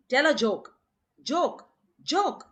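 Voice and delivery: insistent repeated demand; pressing for a joke. Retold or imitated. Baba demanding jokes, voiced.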